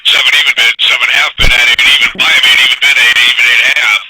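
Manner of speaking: urgent pit price calling; frantic trading floor shouting. Real, not acted. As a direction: call the bids fast and urgent. Pit broker calling a rallying market.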